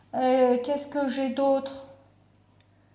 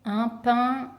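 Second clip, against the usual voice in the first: "pain-" held and left hanging; lingering "pain-" as a cue; unfinished first syllable. Shown as a demonstration. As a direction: stop on "pain-" for children to finish. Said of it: "on va utiliser quoi comme outil".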